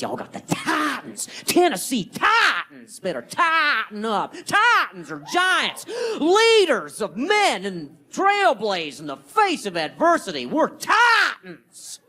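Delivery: booming sports hype voice; hype shout. Acted. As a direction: pump up the crowd, shouting. Hyping up Titans football name.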